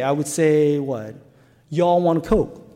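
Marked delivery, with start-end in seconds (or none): 1.7-2.7 light Southern Y'all want a Coke. Shown as a demonstration. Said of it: "what would I say".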